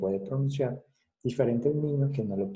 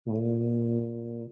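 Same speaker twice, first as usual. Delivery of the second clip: hummed sound demo. Shown as a demonstration.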